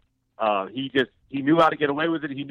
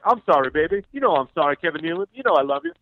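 pitched up, emphatic mock apology; imitated placating apology; 3 semitones higher than usual. Comic apologizing to his target next segment, mock placating. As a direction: sweet-talk your way back in. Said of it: "it was always the apology".

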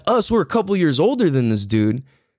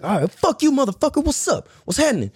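higher-pitched cocky comeback; practiced trash talk; 10 semitones higher than usual. Retold or imitated. Kid practicing defense moves in words, cocky mock challenge. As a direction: throw the challenge back, pitched up. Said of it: "just practice talking shit".

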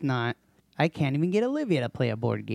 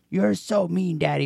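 put-on kid's whine; 7 semitones higher, 4 dB louder than usual. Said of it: "it's always like".

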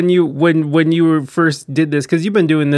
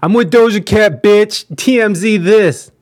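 higher, louder showoff brag; mock brag; 6 semitones higher, 4 dB louder than usual. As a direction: crow about meeting a star. Friend mock-brags as Morby.

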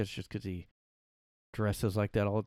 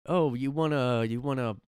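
Bill Burr; 4 semitones higher, 6 dB louder than usual. Retold or imitated. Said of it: "his bit was like".

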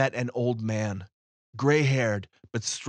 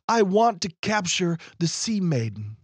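ferryman's demand; 7 semitones higher, 3 dB louder than usual. Acted. Ferryman states his wish.

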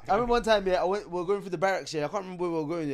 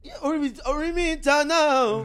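barking soldier; 9 semitones higher, 5 dB louder, slower than usual. Pretend. Voicing soldier command.

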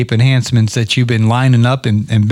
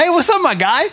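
high-pitched imitation of a buddy's greeting; Naylor Taliaferro. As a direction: mimic the caller, pitched way up. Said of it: "Naylor Taliaferro calls me the other day".

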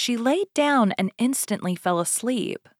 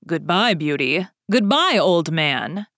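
Beast's farewell; 4 dB louder than usual. Acted. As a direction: draw out the goodbye like a beast.

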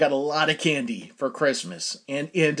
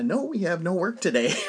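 laughing through the quote. Real, not acted. Boss's reply, speaker cracking up.

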